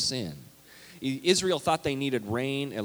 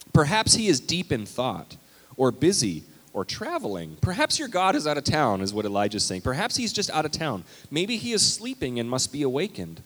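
louder, higher mocking trash talk; sarcastic taunt; 5 semitones higher, 5 dB louder than usual. Elijah trash talking the prophets of Baal, sarcastic. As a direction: needle them with sarcasm. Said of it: "Elijah began to taunt".

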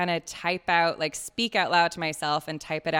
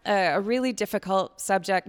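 loud, higher-pitched mock host restart; improvised podcast intro; 5 semitones higher, 8 dB louder than usual. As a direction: push through an overdone, floundering show opening. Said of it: "if I just kinda improvise".

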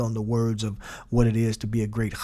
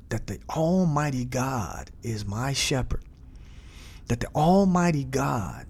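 musing meditation; 3 semitones higher than usual. Shown as a demonstration. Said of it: "now this is meditation".

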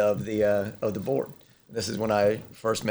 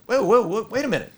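higher, louder astonished quote; amazed firefighter; 7 semitones higher, 4 dB louder than usual. Retold or imitated. Firefighter watching the demo, higher louder mock astonishment. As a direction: sound stunned at what you just saw. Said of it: "they're like".

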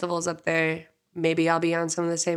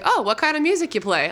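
customs officer; 5 semitones higher, 3 dB louder than usual. Retold or imitated.

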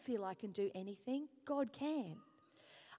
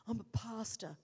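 grudging, sulky admission; reluctant pastor confession; full of attitude; 2 semitones lower than usual. Retold or imitated. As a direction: say it like you resent being asked. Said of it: "with all the attitude you can imagine".

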